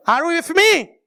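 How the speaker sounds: a hint of an American preacher's English; English accent. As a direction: toss the question out in a playful mock English accent. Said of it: "je sais que mon accent n'est pas crédible".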